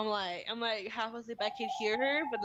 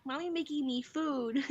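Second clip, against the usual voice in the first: lightly voiced toddler, higher and slower; young daughter; 4 semitones higher than usual. Daughter telling crying sister, lightly imitated high child voice. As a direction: imitate baby talk, a little high and drawn out. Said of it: "She's like".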